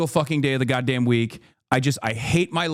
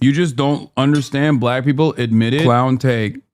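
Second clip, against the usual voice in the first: louder, lower berating, rushing; angry tirade; 4 semitones lower, 4 dB louder than usual. Real, not acted. Streamer berates black commenters, loud and fast. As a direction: tear into the chat.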